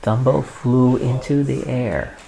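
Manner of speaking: unhurried read-aloud with pauses between phrases; storybook reading; story narration. A narrator's reading. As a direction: read a picture book to a small child.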